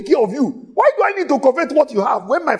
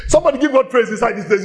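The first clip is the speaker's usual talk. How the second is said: excited call for praise; much faster than usual. Real, not acted. Preacher calls for praise.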